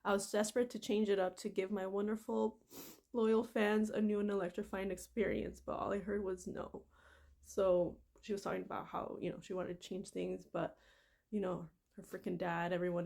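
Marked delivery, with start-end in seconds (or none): 0.0-6.8 steady reading of a memoir passage; reading aloud. Acted. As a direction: read the book passage out evenly.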